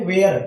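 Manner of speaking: वेयर begun on a plain W; silent H. Shown as a demonstration. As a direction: say वेयर with no "ha" sound. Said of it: "यहाँ पर भी आपका एच silent word है". (वेयर में हा नहीं बोलना)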